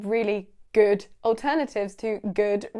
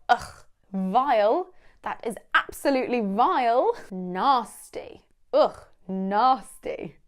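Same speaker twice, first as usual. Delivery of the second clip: disgusted; slower than usual. Shown as a demonstration. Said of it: "show absolute disgust".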